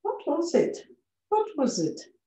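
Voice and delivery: high rising-pitch question. Shown as a demonstration. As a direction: ask it up high. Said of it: "Olha a pronúncia normal".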